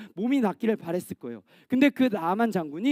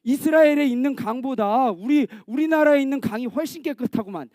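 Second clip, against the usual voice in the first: indignant general, lightly hammed up; mock anger; 3 semitones higher than usual. Naaman rejecting the river cure, indignant. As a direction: scoff in acted outrage. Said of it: "이러면서 막 화를 냈다고요".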